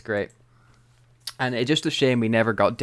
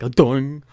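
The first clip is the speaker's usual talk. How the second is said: imitated cartoon bonk, louder; cartoony dong; 3 semitones higher, 6 dB louder than usual. Co-host mimicking the episode's sound effect, cartoony dong. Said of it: "a very cartoony sound effect".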